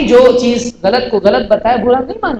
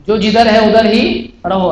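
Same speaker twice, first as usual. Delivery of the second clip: 1 slow emphatic repeat. Shown as a demonstration. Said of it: "اہل حدیث ایسا نہیں بول سکتے".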